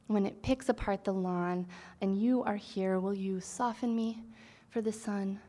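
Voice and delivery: measured lines with deliberate pauses; poetry reading. Acted. Poet resumes reading to the audience, poetry reading. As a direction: read the poem phrase by phrase, unhurried.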